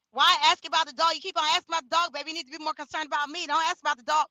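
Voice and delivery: fast, mildly heated mock rant; retold flip-out. Streamer retelling a woman's outburst over the dog question, mock flip-out. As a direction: imitate her flipping out, words tumbling fast. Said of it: "she fucking flipped out and was like".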